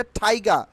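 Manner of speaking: "টাইগার" with aspirated t, no r; corrected pronunciation. Shown as a demonstration. Teacher applying the silent r rule, corrected pronunciation. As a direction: say "টাইগার" as "thai-ga". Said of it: "আর কিন্তু এখানে silent থাকবে".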